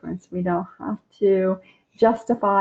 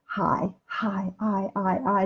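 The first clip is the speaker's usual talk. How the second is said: soft drawn-out hi; 7 dB quieter, slower than usual. Shown as a demonstration. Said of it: "That long I makes such a difference".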